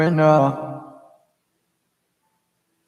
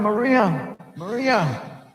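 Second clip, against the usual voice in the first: retold yell; 8 semitones higher, much slower than usual. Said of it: "And he's yelling".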